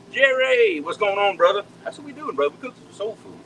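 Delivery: excited greeting. Real, not acted. Greeting viewer Jerry on live chat.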